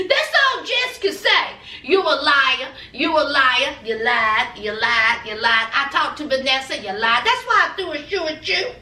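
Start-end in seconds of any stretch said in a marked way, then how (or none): 1.8-7.2 mock accusing girlfriend. Jess repeating her accusation.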